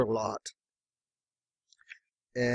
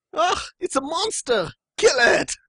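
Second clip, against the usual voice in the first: high-pitched cartoon mob alarm; mock panicked shout; 13 semitones higher, 4 dB louder than usual. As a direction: shriek it like a hammed-up frightened townsperson. Acting out Simpsons episode crowd.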